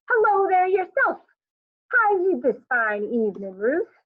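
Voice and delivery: high, loud, gushing neighbor voice; squeaky enthusiastic neighbor. A narrator's reading. Neighbor Johnson greeting Ruth at the door, squeaky and gushing. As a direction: greet everyone like the best news of the year. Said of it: "rather squeaky, wide-eyed lady".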